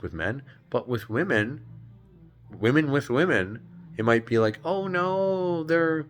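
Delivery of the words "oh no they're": high-pitched mock protest; defensive friend.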